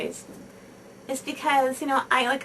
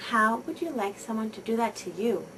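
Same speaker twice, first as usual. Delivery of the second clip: put-on quiet, kind question to the child aside; gentle and soft. Shown as a demonstration. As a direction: ask it gently, drawing the child close. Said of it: "say very gently and softly".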